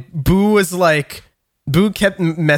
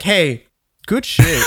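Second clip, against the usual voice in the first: imitating the neighbor; 3 semitones higher, slower than usual. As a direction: cheer it like an approving neighbor. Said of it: "all he did was like".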